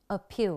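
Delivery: a-PEAL, second syllable stressed in Appeal. Shown as a demonstration. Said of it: "nhấn ở âm tiết thứ hai".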